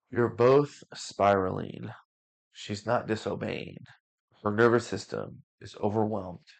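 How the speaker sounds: lightly voiced elder gently correcting both fathers; wise elder. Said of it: "the wise ancient elder".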